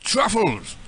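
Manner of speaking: mock British caller; British accent. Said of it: "switch to my British voice".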